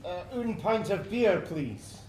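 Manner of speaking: a bad, slow put-on French accent; a Scot hamming up a French accent; a Scot faking French to order a beer; fake French accent. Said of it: "You don't sound very French to me".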